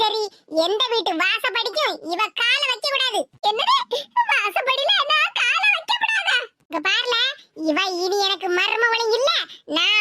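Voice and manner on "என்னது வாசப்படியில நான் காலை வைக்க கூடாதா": outraged protest. Acted. Daughter-in-law outraged at the ban.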